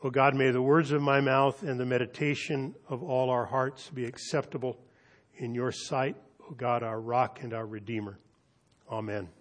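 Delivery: hushed, reverent prayer; quiet pulpit prayer. Acted. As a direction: pray softly to God. Prayer after the reading.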